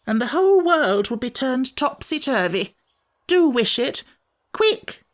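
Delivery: fret, then beg them quickly; grumbling creature turning urgent. Acted. Samiad character voice, urgent ending.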